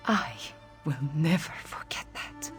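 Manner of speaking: near-whispered, heartfelt promise; moved, hushed vow. Acted. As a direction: drop to a soft, intimate murmur. Moved thanks to a loyal friend.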